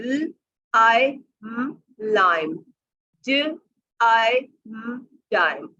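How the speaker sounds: ल आई म लाइम, sounds drawn out slowly; long vowel blending. Shown as a demonstration. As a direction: stretch आई long then blend. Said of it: "long sound बोल रहे हैं". (लंबी आई ध्वनि खींचकर)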